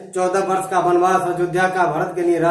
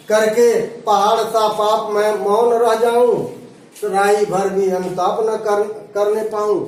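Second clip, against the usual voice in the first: verse recitation. Acted. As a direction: read the couplet out in verse rhythm.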